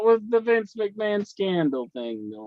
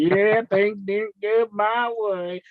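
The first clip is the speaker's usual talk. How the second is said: put-on Southern accent; slower than usual. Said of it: "He's like".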